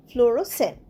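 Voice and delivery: ফ্লোরোসেন্ট with no K sound, ending in "sent"; silent C. Shown as a demonstration. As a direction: teach ফ্লোরোসেন্ট, the SC as one S. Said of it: "সি উচ্চারণ হবে না".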